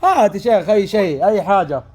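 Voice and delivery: shouting into the phone; loud, blaring voice; too loud, headphones on. Acted.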